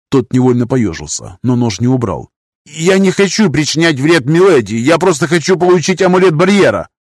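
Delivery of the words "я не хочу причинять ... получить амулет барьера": put-on high, trembling old man's voice; quavering voice. A narrator's reading. Master defies lord in a quavering high voice. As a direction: let the voice rattle and shake. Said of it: "master's voice".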